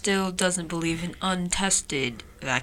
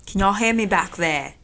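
mock British accent. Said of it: "Can you please stop talking in a British accent".

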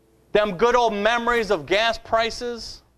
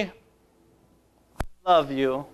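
tender; 9 semitones lower than usual. Shown as a demonstration. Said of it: "Jesus didn't say".

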